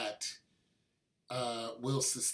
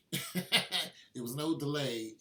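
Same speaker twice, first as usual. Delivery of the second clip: laughing; 3 semitones higher, 4 dB louder, slower than usual. Real, not acted. Laughing at own hard luck.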